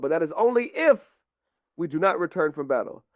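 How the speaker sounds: measured, lightly voiced royal instructions; commanding king. King Arthur entrusting Sir Galahad with a key, measured command. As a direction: play a solemn king with emphatic conditions.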